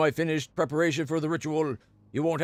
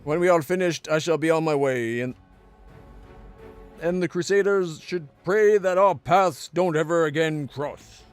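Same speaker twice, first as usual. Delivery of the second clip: mocking lich voice; 3 dB louder than usual. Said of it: "Responds with mocking laughter".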